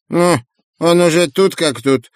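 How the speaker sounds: high squawky pelican exclaim. Acted. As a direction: cry out like an old pelican. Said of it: "воскликнул старый пеликан".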